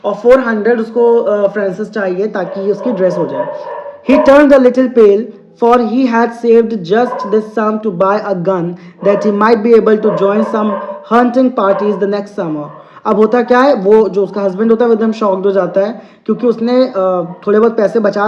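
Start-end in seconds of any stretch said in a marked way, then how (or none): 4.1-12.7 slow, deliberate English reading; teacher reading a story to students, very slow; slow read-aloud. Acted. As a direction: read each word out slowly for the class. Teacher reads story text aloud.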